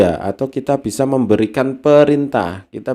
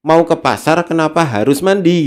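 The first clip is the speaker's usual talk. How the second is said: put-on puzzled child; 5 semitones higher than usual. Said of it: "Dia mikir".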